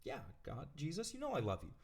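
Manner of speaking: a touch of startled hush, half-whispered; lightly acted surprise; taken aback. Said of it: "kind of taken aback".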